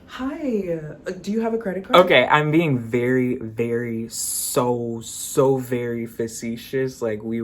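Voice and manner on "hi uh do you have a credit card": higher, fast teller question; rushed teller. Acted. Teller quizzing a customer, hurried higher voice. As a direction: rattle it off like a teller.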